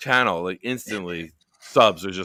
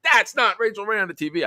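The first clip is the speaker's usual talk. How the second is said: emphatic; 12 semitones higher, 6 dB louder than usual. Retold or imitated. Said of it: "I was like".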